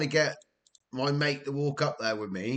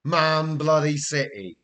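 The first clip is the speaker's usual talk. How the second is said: exasperated groan; 3 semitones higher, 6 dB louder than usual. Real, not acted. Cup draw gives Man City.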